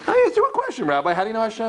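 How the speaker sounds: exasperated insistence. Retold or imitated. Larry David exasperated retold.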